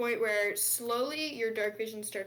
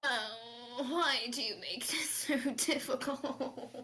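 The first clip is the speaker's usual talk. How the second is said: slow, hammed-up whine; mock whining; slower than usual. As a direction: plead with a fake sob. Pleading persuasion, mock crying.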